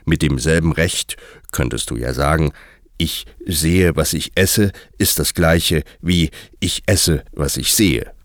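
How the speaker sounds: lightly voiced, deliberate Hatter; a hint of a pedantic hatter; lecturing Hatter. A narrator's reading. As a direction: make the point word by word as a pedantic character. Hatter's figure lectures Alice.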